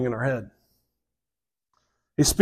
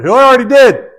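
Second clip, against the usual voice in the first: emphatic exclamation; 9 semitones higher, 8 dB louder than usual. Real, not acted. Preacher reminding himself God already acted, emphatic exclamation. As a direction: burst out high and loud.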